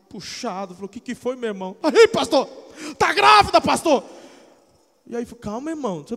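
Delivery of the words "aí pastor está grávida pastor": mock frantic, distraught, loud, desperate voice. Retelling how a father called for the pastor, acting out a desperate father. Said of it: "Está lá o pai desesperado".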